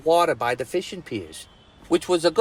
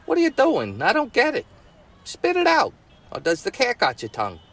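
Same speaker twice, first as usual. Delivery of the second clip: put-on exasperated boy; 7 semitones higher than usual. Johnny frustrated by her signing.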